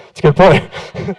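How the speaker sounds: chuckling as you concede the point; laughing. Real, not acted. Telling Grant his worry is fair, laughing. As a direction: laugh through the words, slowly.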